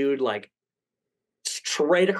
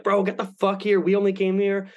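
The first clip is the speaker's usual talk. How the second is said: high, pushy imitation of friends yelling, laughing at the end; mock yell; 6 semitones higher than usual. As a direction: badger him to show up, half laughing. Friends demanding he come.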